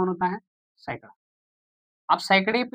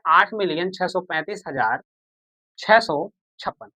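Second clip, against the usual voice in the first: slow, spelled-out reading; slower than usual. Shown as a demonstration. Teacher repeating the number for students, slow and distinct. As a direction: read each number slowly and distinctly. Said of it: "क्या पढ़ेंगे?".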